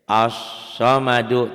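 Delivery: As-samadu chanted slowly and loudly, lam silent; recited Arabic example. Shown as a demonstration. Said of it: "alif lamnya nggak dibaca". (As-samadu dibaca pelan, lam tidak dibaca)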